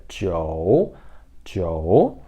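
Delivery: "jiu" with an o glide, like "ji-ou", dipping low then rising; o in the middle. Shown as a demonstration. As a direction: draw out "jiu" so the o is heard. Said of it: "vai ter esse o no meio".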